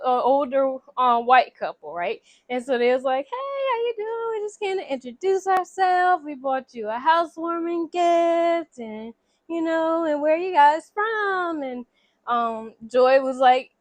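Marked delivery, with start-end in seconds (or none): 3.3-11.6 a hammed-up polite neighbor greeting. Neighbors introducing themselves at the door, mock cheery. Neighbor couple voiced in retelling.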